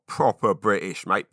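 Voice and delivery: lightly exaggerated British; a mild hint of London "proper British, mate"; casual mock-British quip; British expat catchphrase. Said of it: "My kids hate me doing that".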